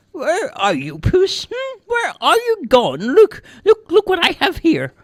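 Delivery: put-on very high old-woman voice, calling the cat; old lady calling out. A narrator's reading. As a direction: call insistently from the next room. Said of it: "The old lady called out from the living room".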